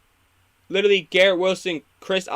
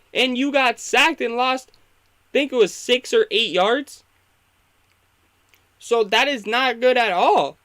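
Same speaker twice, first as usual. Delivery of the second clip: raised, louder and higher, fed up; frustrated rant; 5 semitones higher, 3 dB louder than usual. Real, not acted. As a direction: vent at the bad coaching call. Frustrated rant about coaching.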